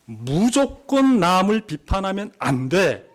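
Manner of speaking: 높고 느리게 또박또박 외치기; 단호히 금지하듯 크게. Retold or imitated. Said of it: "라고 예수님이 말씀하신 건". (설교자가 잘못된 해석을 높고 크게 흉내)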